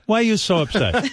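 high-pitched mock dad, amused; put-on high questioning voice; imitating the dad. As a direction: ask it high, with a laugh. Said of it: "And then he goes".

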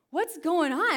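high, loud astonished shout; amazed cry. Retold or imitated. Healed man shouts in amazement, high and loud. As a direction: burst out in joyful disbelief.

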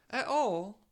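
high mock-annoyed British mum; singer impression. Singer getting annoyed with her kid, mock-annoyed. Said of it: "a singer getting annoyed with her kid".

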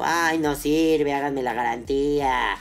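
slow, drawn-out whiny plea; hammed-up sobbing complaint at the shop counter; mock whining. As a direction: whine it like a customer faking tears. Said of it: "regresan llorando".

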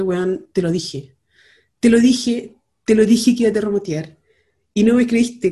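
loud told-you-so; reproche. Pretend. Reproche imaginado al esposo. (reprochando al esposo por teléfono, voz fuerte)

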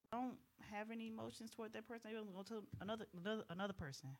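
tripping over the words; stumbling, repeating words; stuttering. Real, not acted. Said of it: "I'm stuttering".

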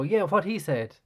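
lightly voiced hype man echo. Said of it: "And just, like, go".

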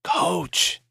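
a thin raspy high whisper; weak correction. Acted. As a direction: croak the word Coach out weakly, correcting. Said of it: "he corrected".

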